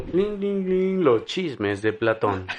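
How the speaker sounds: slow mock TV segment announcement; show intro jingle. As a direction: announce it like a cheesy show section. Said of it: "Así como".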